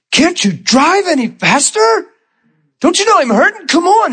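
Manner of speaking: high-pitched mock of himself in pain; desperate plea. Begging the driver in pain.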